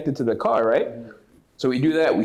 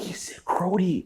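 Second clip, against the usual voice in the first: put-on Toronto accent; 4 semitones higher, 4 dB quieter than usual. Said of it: "the Toronto accent".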